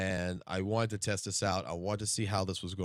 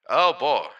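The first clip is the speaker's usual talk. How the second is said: loud, raised exclamation; 3 semitones higher, 10 dB louder than usual. Shown as a demonstration. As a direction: belt it out. Testing voice, loud take.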